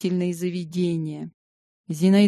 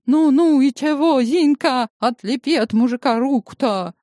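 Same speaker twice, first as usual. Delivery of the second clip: high, loud, impatient pestering; excited nagging; 6 semitones higher, 4 dB louder than usual. Acted.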